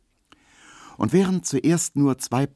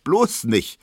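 slow, louder, higher and puffing; 10 semitones higher, 6 dB louder, slower than usual. A narrator's reading. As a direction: puff the words out, still winded. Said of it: "sagt Emma und pustet".

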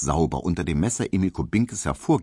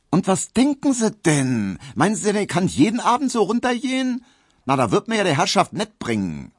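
high, louder, faster huffy protest; indignant maid; 12 semitones higher, 4 dB louder than usual. A narrator's reading. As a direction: rattle off her outrage. Hedwig indignant to Emil.

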